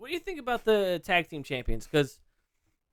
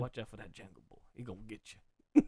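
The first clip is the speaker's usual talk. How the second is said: low, soft New Orleans warning; New Orleans accent; 4 semitones lower, 3 dB quieter than usual. Acted. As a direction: warn softly in a mock New Orleans accent. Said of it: "a New Orleans".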